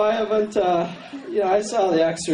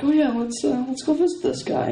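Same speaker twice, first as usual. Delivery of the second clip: eager mom; 8 semitones higher than usual. Retold or imitated. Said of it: "my mother's like".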